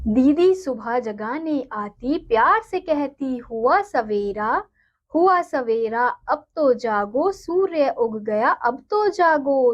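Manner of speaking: put-on slow, sing-song reading of a children's poem; poem recitation. Teacher reading a poem to her students, slow and sing-song. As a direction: recite it gently and slowly for the class.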